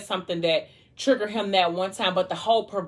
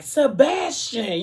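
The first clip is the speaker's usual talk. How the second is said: drawn-out, higher cry of his name; shocked exclamation; 5 semitones higher, much slower than usual. Retold or imitated. Christiana to Sebastian after he choked Morgan, drawn-out shock. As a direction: stretch the name out in mock shock.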